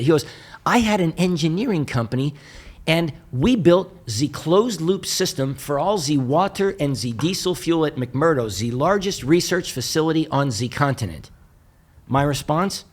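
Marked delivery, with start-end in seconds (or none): 0.6-11.3 put-on Eastern European accent. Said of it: "very heavy Eastern European accent".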